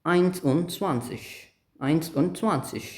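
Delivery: very slow, each word separate; German teacher modelling eins und zwanzig slowly; slow model reading. Shown as a demonstration. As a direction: say it slowly so students can copy. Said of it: "So it's".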